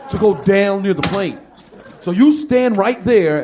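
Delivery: slow, firm command; a touch of mock authority; officious order. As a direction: lay down the rules slowly. White guy orders her to stay.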